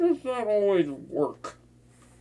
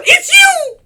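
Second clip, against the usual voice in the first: stunned recognition; 14 dB louder than usual. Acted. Villain recognizing the hero at last, loud high shocked cry. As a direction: gasp then much higher, loud cry of it's you.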